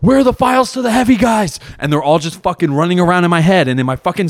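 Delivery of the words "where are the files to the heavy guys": high, panicked mock-military exchange; SpongeBob. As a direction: play frantic little underlings answering their boss, pitched way up. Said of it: "They're like".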